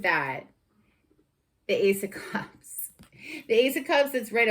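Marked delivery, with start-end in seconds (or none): 1.7-2.9 awed whisper. Real, not acted. Hushed reveal of a card.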